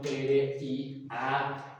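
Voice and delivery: "R I A" spelled out slowly, letter by letter; underlined ending. Shown as a demonstration. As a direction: set each letter of "R I A" apart. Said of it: "subrayo esa terminación". ("R I A" subrayado, letra por letra)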